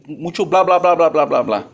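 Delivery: run-together blah-blah, falling at the end; coworkers' mock chatter. Preacher quoting coworkers who called him talkative, mock blabbing. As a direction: mimic a tease about talking too much. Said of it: "En mi trabajo donde estaba me decían".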